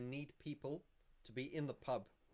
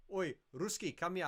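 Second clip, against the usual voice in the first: loud, higher mocking summons; cheeky shout-out across the restaurant; teasing call; 7 semitones higher, 6 dB louder than usual. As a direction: call her over to wind her up. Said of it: "I always used to take the piss".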